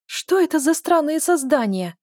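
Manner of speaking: a shrill, excited princess squeal, way up high; ultrasonic squeak. A narrator's reading. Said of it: "почти на ультразвуке пропищала".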